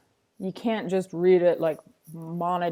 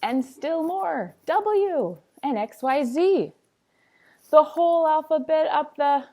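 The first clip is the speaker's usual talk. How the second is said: building excitement; 8 semitones higher, 5 dB louder than usual. Acted. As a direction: build the suspense letter by letter. Building tension in story.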